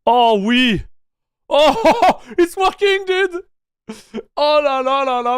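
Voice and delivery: high excited French exclamations; hammed-up French delight; french chef. Device finally connects.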